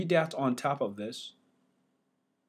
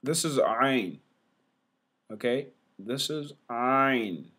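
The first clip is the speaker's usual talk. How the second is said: ordinary delivery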